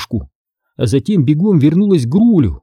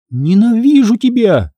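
злой крик; 9 semitones higher than usual. Acted. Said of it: "крикнула я Грулю".

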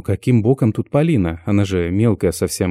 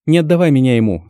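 louder, higher terrified plea; desperate plea; 5 semitones higher, 5 dB louder than usual. Acted. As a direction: beg not to be handed over. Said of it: "смотрит пронзительно".

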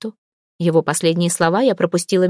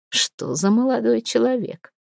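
smirk; 3 semitones higher, slower than usual. Acted. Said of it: "усмехнулся он".

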